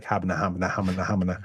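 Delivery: low, soft tongue-tied mumble; starstruck kid babbling. Retold or imitated. Imitating the child actor awed by Connery, tongue-tied babble. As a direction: imitate a kid stammering nonsense under his breath. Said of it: "the kid was just like".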